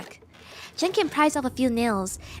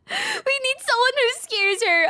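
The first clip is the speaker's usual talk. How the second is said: scheming; 13 semitones higher, 4 dB louder than usual. Acted. Character scheming.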